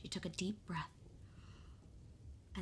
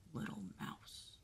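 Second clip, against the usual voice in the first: lion roar; 12 semitones lower, 8 dB quieter than usual. Acted. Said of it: "said the lion with a roar".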